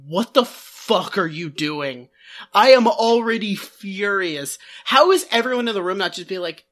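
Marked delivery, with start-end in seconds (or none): 0.1-4.6 slow, lower voice of a man at his limit; slowly voiced, fed-up Dud, lower; exasperated Dud. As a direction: drag it out, fed up. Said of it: "To which Dud is like".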